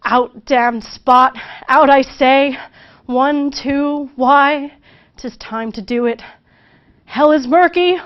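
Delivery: loud, frantic cries of a guilty madwoman; Lady Macbeth raving. Acted. Teacher acting Lady Macbeth's mad outburst, loud and frantic. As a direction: shout it out like she's losing her mind. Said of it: "and she says".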